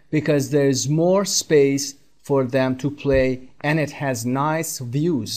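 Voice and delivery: careful dictation pace; slow textbook reading. Shown as a demonstration. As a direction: read the sentence slowly and clearly for learners. (خواندن آهسته متن درسی)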